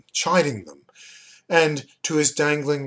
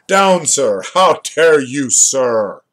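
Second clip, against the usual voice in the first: mock scolding; 2 semitones higher, 9 dB louder, slower than usual.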